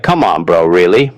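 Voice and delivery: low-pitched, understated annoyance; annoyed. Shown as a demonstration. Teacher showing bro said to someone annoying, annoyed. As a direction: let mild irritation sit low in the voice. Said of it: "say bro to someone you are annoyed with".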